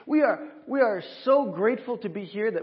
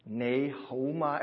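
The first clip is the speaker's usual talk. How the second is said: greeting demo; slower than usual. Shown as a demonstration. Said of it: "the second greeting I put up here".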